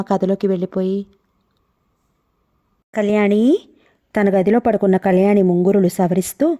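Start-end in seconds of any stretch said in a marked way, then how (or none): 2.9-3.6 eager fond call. Acted. Lover calls her name eagerly and fondly. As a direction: call her gently with longing. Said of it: "ఆత్రంగా, అభిమానంగా పిలిచాడు".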